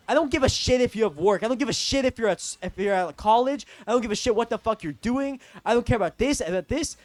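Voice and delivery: mildly worked-up mock rant; retold freak-out. Imitating the friend freaking out at him, retold freak-out. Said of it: "he starts freaking out".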